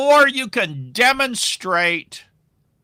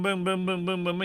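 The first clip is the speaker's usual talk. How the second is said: softer repeated boom like calls popping up; imitated ring pops; 8 dB quieter than usual. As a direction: tap out each incoming call with your voice, softer. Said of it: "you see the rings go boom".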